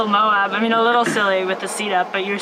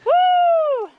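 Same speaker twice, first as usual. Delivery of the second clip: high-pitched roadside cheering; hoarse marathon cheering; 12 semitones higher, much slower than usual. Real, not acted. Spectator cheering passing racer.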